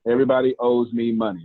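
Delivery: a firm, entitled first-person claim; confident demo line. Shown as a demonstration. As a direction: say it like you're owed, firm and sure. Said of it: "That's how I want you to say it".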